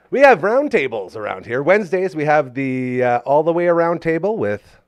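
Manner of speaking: loud, upbeat program promo; promo read. Acted. Host promotes weekly segments loudly to viewers. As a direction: announce the weekly lineup.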